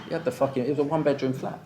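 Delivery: chuckling in disbelief as he talks; laughing. Real, not acted. Recalling the stray who took the bedroom, laughing. Laughing at the absurd living situation.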